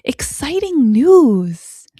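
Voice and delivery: high, loud and slow, full of delight; excited announcement. Shown as a demonstration. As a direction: announce it like a thrilling surprise for a toddler. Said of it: "could sound like".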